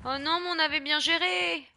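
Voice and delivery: loud, high cry of dismay; a loud wail of gaming frustration; dismayed outcry. Real, not acted. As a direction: yell out at the ruined run. Player reacts to game failure.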